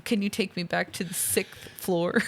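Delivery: mock American accent, badly done. Fake hostage asks John for help, bad American accent. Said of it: "not a very good American accent".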